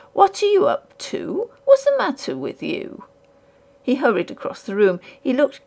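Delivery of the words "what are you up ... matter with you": high, alarmed cry of a nervous man. A narrator's reading. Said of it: "cried Sewell".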